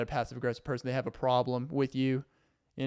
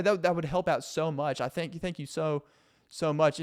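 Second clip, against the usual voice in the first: lightly higher, sugary hinting voice; mildly high fake-friendly roommate; passive aggressive roommate; 4 semitones higher, 4 dB louder than usual. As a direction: drop hints sweetly, never asking outright. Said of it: "they're just like".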